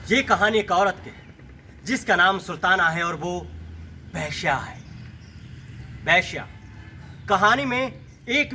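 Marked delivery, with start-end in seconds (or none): 0.1-6.5 suspenseful pause, then a low "वेश्या", repeated alone; explosive reveal. Shown as a demonstration. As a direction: build to "वेश्या" after a pause, dropping it low. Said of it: "थोड़ा और विस्फोट की तरीके से कहता हूँ".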